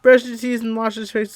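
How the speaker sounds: amused, laugh-broken reading. Real, not acted. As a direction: keep reading while still giggling. Narrator still laughing while reading.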